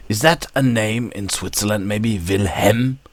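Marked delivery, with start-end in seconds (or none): 2.2-3.0 "Wilhelm" with the L before the M left out; questioning Vilhem for "Wilhelm"; Wilhelm without the second L. Shown as a demonstration. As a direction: say "Wilhelm" as Vil-hem. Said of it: "where they leave away the L".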